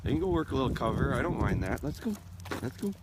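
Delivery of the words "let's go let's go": whistle in mouth. Real, not acted. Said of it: "I got my whistle in my mouth".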